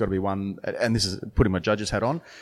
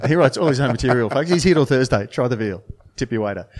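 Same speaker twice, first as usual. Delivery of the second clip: stand-up comedian; 4 semitones higher, 7 dB louder than usual. Acted. Jokey comedy club sign-off bit.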